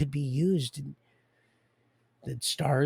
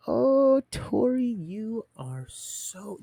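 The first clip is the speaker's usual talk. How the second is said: excited teasing cry; 9 semitones higher, much slower than usual. Real, not acted. Speaker teasing Tori, high and excited. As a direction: exclaim at Tori, then slow right down.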